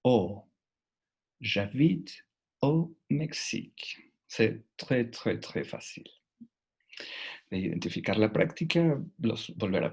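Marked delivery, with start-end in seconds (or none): 1.4-4.1 "au" in "J'habite au Mexique" said as a clear O, slowly; slow demo, "au" sounding O; "au Mexique" higher, "au" a pure O. Shown as a demonstration. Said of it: "Ese tendrá el sonido de O".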